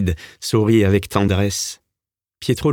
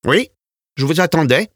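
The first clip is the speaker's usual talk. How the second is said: joyful smile; 7 semitones higher than usual. A narrator's reading. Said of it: "sourit joyeusement Paride".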